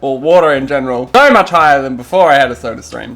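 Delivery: talking with a mouth full; wolfing down food. Real, not acted. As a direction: speak between big bites. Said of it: "meagering mukbang".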